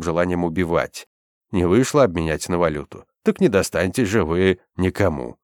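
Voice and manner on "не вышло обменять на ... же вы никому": ordinary delivery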